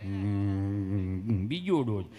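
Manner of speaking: low, halting drone before the words; mock stutterer stuck on a hum; stammering patient. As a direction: struggle to get the answer out. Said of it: "એ બેનો વાર્તાલાપ ખાલી જોયા જેવો".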